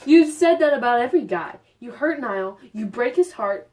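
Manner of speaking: a touch of hammed-up menace; mock threat. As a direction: threaten her, half-joking. Emma threatening Sarah.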